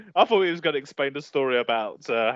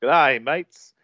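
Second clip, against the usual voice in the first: hammed-up Aussie greeting; mock Australian, stretching the catchphrase; Australian accent. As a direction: do a stock Dumb and Dumber Australian accent. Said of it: "was it Australian accent for Dumb and Dumber".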